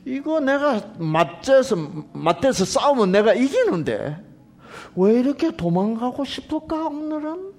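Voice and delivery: high-pitched bewildered snake voice; puzzled rattlesnake. Acted. Rattlesnake wondering why it wants to flee, high puzzled voice. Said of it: "방울뱀이".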